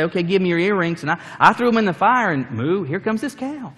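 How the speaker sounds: hammed-up Aaron pleading his innocence; panicky excuse-making Aaron. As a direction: scramble to blame everyone else.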